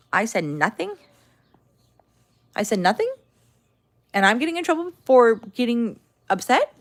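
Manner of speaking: incredulous rising questions; indignant disbelief. Retold or imitated. Indignant at being blamed.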